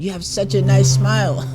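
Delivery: quoting through real laughter; can barely get the line out for laughing. Real, not acted. Retold while laughing.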